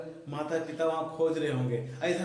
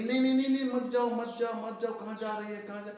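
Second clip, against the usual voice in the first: चिल्लाती माँ; 6 semitones higher, faster than usual. Acted. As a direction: act out a mum calling her child back, urgent repeats. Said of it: "mummy चिल्लाने लगी". (घबराकर रोकती माँ की ऊँची चिल्लाहट)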